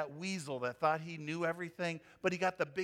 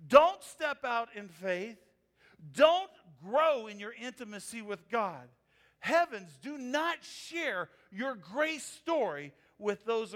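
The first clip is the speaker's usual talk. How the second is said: louder, ironic preaching; mock-scold the congregation, louder; sarcastic mock warning; 2 semitones higher, 4 dB louder than usual.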